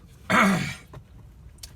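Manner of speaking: sharp single cough. Real, not acted. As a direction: clear the throat hard. Damn near choked.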